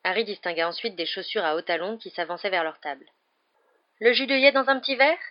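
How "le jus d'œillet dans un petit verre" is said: high, loud waitress calling out an order; high-pitched landlady asking whose drink it is; woman's voice. A narrator's reading. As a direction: lift the voice into a bright serving call. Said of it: "dit une voix de femme".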